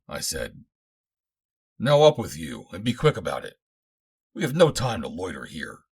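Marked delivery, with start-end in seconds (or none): 1.8-5.8 commanding. Acted. Vandor orders Xanda aboard.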